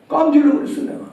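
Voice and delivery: normal talking voice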